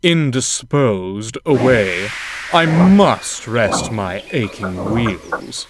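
slow, lordly command with a throat clear; haughty order. Acted. Big engine to Thomas, slow lordly order. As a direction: dismiss him like a butler.

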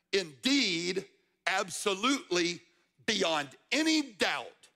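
emphatic, with DOUBT drawn out. Shown as a demonstration. Preacher defining a Hebrew word to the congregation, emphatic. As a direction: land each phrase like an exclamation point. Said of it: "exclamation point".

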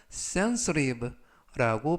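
sensitive with the T said as a soft r-like flap; soft flapped T. Shown as a demonstration. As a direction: model sensitive, T softened to a light r. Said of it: "T가 부드럽게 트가 아니라 르".

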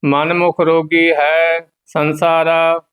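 level monotone Gurbani chant; measured devotional reading; scripture recitation. Acted. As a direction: recite on one steady note, endings held.

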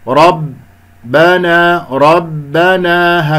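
ربنا slowly, the doubled b held shut without a puff; firm, airless baa. Shown as a demonstration. Teacher models the strong b, slow recitation. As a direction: hold the b of ربنا firm, then stretch. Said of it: "هكذا لا أخرج مثل حرف البي".

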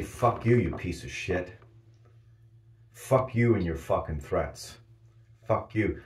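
loud angry shouted curses; furious yelling. Pretend. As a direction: yell it right in God's face. Raging back at God.

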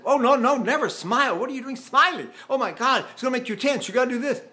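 high, agitated, imitated reprimand; mock scolding. Opera company head scolding a singer for smiling, mock-alarmed high voice. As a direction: scold in hammed-up dismay, pitched high.

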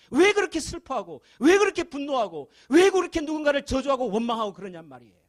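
high, loud fervent sermon voice, pressing each 왜; impassioned preaching. Acted. Pastor pleading with the congregation, impassioned preaching. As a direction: preach it hard, rising with every question. Preacher builds to full force.

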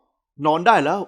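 slow, low, scolding male order; firm bedtime command, mildly scolding; mock stern. A narrator's reading. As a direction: put on a stern voice. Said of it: "เขาทำเสียงดุ".

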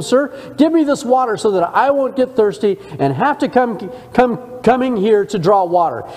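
lightly mock the request, half-teasing; sarcastic woman. Samaritan woman mildly mocking Jesus, understated sarcasm. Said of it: "So now she responds to him sarcastically".

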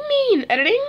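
high laughing shout-out. Real, not acted. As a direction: laugh through the greeting. Laughing shout-out at video end.

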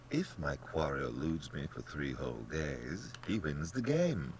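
a hint of a bland, pleased hunter; understated genial general; lightly voiced general. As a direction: lay out the rules with lilting ease.

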